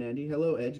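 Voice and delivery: usual speaking voice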